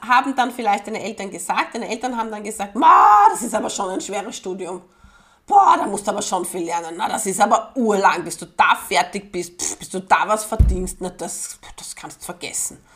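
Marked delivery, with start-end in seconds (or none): 2.8-11.0 doubting parents. Pretend. Parents discouraging the child. 11.0-12.8 dropping to a whisper; hushed dismissal. Pretend. Parents dismissing the child's dream in a whisper.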